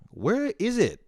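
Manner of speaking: a mock search yell for the lost hat. Shown as a demonstration. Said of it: "I ask the air louder".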